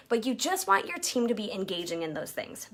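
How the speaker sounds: confiding whisper; whispered aside. Real, not acted. Coach confiding to moms on her team, whispering. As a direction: let them in on a secret.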